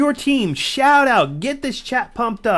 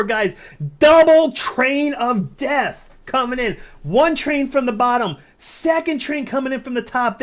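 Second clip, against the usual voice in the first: excited; 3 semitones higher, 4 dB louder than usual. Real, not acted. Caster hyping a big attack.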